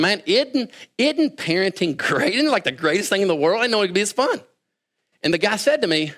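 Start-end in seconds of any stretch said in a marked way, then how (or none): 0.0-4.4 higher-pitched, lightly gushing new dad; mild gushing. Retold or imitated. New dad to friend about parenting, mild gushing.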